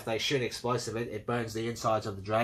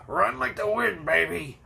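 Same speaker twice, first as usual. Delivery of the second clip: higher, louder swaggering cry; cocky hero yell; 7 semitones higher, 4 dB louder, slower than usual. Retold or imitated. Hero urges Lex to sprint, cocky loud cry. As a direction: hype her up like a reckless hero. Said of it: "he goes".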